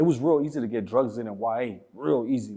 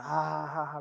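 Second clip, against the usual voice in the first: mock laughing; 2 semitones higher, 8 dB quieter, slower than usual. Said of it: "like, laughing".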